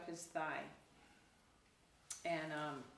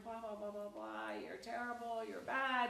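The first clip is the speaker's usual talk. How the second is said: higher-pitched mock tirade; mock screaming abuse; 5 semitones higher than usual. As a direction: rattle off insults as a pretend scolding. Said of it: "it's screaming profanities at him".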